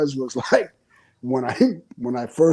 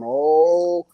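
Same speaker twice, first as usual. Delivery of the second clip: mom's voice. Retold or imitated. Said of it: "she's going".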